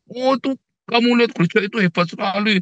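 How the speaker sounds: lightly hammed-up admiring chatter; gushing churchgoer. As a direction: imitate someone bragging about their church. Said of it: "ceritanya kehebatannya gereja".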